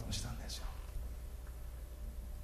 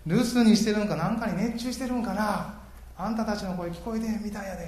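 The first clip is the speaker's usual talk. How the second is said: higher teasing jeer; mocking taunt; 6 semitones higher, 4 dB louder than usual. Elijah taunting Baal's prophets, teasing jeer. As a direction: taunt them as if their god is away. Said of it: "罵声浴びせるんですよ".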